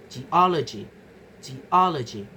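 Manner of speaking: "geology" with the stress on O. Shown as a demonstration. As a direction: lean on the O in "geology". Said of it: "The stress falls on o".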